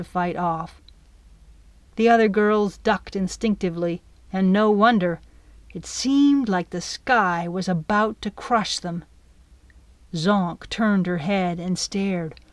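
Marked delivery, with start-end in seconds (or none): none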